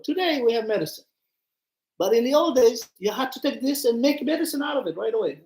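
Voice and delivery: ordinary talk, nothing marked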